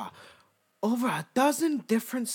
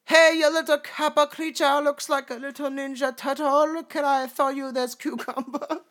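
put-on Japanese accent; 5 semitones higher than usual. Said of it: "I love doing the Japanese accent".

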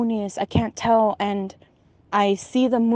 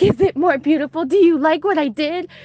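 creepy sing-song aunt; 5 semitones higher, 4 dB louder than usual. Retold or imitated. Aunt voiced again.

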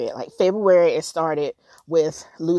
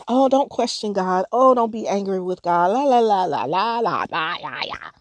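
mocking church talk.

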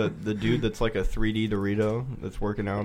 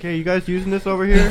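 mock girl voice; 9 semitones higher, 8 dB louder than usual. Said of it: "this chick next to us is like".

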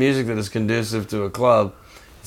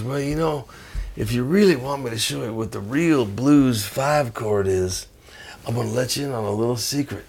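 softer, lightly voiced sly master; wise old bluesman; 6 dB quieter than usual. Bluesman promising bandmates a secret, conspiratorial. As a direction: let them in on a secret, softly.

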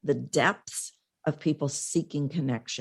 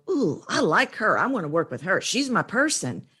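delighted reaction; 3 semitones higher than usual. Retold or imitated. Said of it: "then I go".

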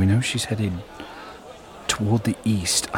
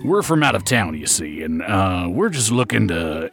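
playing a conspicuous tourist, lightly acted; mildly hammed-up stranger in town; obvious out-of-towner; 3 semitones lower than usual. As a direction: make the act obvious, dropping low mid-line. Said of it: "very obvious".

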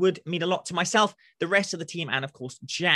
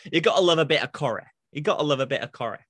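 put-on Northern English, Corrie sounding like curry; best Northern accent; 3 semitones lower, faster than usual. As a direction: lay on an amateur Northern accent. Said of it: "You're saying Corrie like curry".

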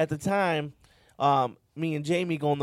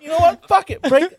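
mock giving up; 9 semitones higher, 7 dB louder than usual. Speaker voicing himself giving up.

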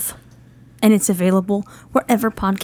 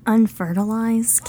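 deadpan comeback; 2 semitones higher, slower than usual. Acted. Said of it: "you're gonna play Miss Windy City".

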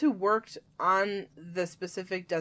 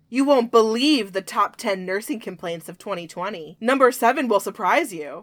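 hyped-up clickbait announcer voice; clickbait video narrator; 2 semitones higher, 6 dB louder than usual. Pretend. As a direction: sell it like a BuzzFeed headline. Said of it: "clickbait, BuzzFeed style".

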